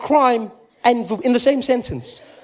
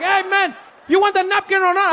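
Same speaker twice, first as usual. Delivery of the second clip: impatient shout; 10 semitones higher than usual. Retold or imitated. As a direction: snap back at him, fed up. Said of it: "He's like".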